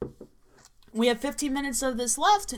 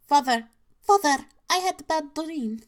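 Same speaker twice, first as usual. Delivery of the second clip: frightened daughter; 5 semitones higher, 4 dB louder than usual. Acted. Daughter voiced in story.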